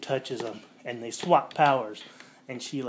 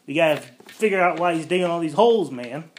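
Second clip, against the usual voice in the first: loud, fast, higher urgent command; barking out an urgent order in a retelling; mock urgent order; 5 semitones higher, 10 dB louder than usual. General urges team, loud urgent mock order.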